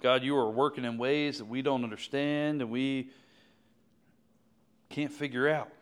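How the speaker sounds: earnest prayer in halting phrases with long pauses; heartfelt pulpit prayer, gaining force toward the end; public prayer. Real, not acted. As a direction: pray aloud for the congregation, pausing often. Leads the congregation in prayer.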